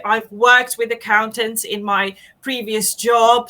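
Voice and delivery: normal talking voice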